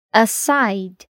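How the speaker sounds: "Aside" with -SIDE stressed, a- weak; stress on second syllable. Shown as a demonstration. Teacher models "Aside" for learners, stress on SIDE. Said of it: "o stress geralmente tá na segunda sílaba".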